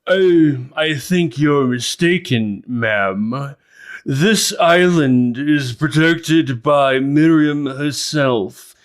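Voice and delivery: loud, slow, high accusing lord; indignant noble. Acted. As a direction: boom a lordly rebuke. GM voices regal man accusing.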